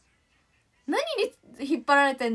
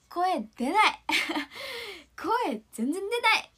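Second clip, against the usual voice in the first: rueful laugh about her voice giving out; laughing at own voice; 5 semitones higher, slower than usual. Real, not acted. Singer laughing at her own cracked voice. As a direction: laugh it off that the voice won't come.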